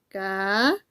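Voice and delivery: Karina broken into ka, ri, na with long pauses; split into syllables. Shown as a demonstration. Teacher separating the word into syllables, Karina said syllable by syllable. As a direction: say Karina one drawn-out syllable at a time. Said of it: "separamos una palabra en sílabas".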